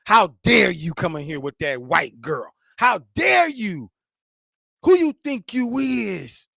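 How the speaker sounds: hammed-up disapproving women glaring; scolding black women. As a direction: drag it out like an offended auntie. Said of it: "all the black women going".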